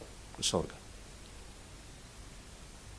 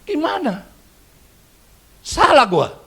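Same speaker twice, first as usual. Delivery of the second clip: crying remorse; 10 dB louder, slower than usual. Acted. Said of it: "Dia nangis".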